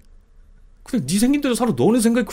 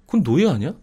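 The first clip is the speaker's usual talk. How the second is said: ordinary talk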